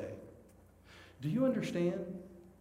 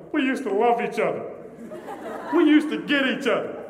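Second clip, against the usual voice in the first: high, loud hammed-up weeping; exaggerated tearful lament, pitched way up; mock tearful mom; 6 semitones higher, 8 dB louder than usual. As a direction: imitate a crying mother wailing the words. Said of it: "and she's crying".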